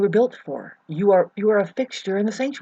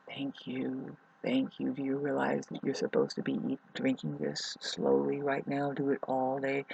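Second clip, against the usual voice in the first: soft voice of her body; 3 semitones lower, 8 dB quieter than usual. Pretend. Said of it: "my whole body is saying".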